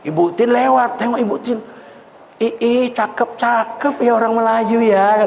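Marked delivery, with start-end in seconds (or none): 2.4-5.2 slow, drawn-out admiring coo; admiring lady. Retold or imitated. Preacher imitates Ibu Tin cooing admiringly at the bride and groom, slow. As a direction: gush over the pretty Malay couple. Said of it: "kata ya".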